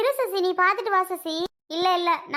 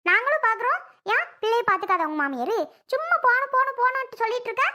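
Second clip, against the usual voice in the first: heated retort; 5 semitones higher than usual. Acted. Relative scolding the new bride's friend, heated and high. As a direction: fire back at her, indignant. Quarrel over the ritual turn.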